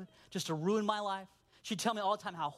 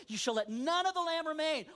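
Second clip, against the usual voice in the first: emphatic scripture; 7 semitones higher than usual. Acted.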